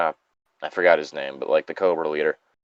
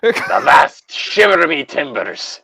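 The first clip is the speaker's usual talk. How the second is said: pirate voice; 4 semitones higher, slower than usual. Pretend. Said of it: "You sound like a fucking pirate".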